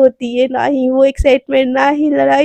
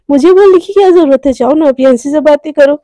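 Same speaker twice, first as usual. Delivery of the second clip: louder, sulky angry snap; jealous girlfriend lashing out; jealous anger; 6 dB louder than usual. Acted. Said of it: "एकदम गुस्सा हो जाती है".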